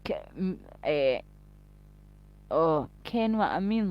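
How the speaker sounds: mimicking an Edinburgh accent; lightly imitated Edinburgh speech; mock Edinburgh accent. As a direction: make fun of the Edinburgh accent. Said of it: "I hate the Edinburgh accent".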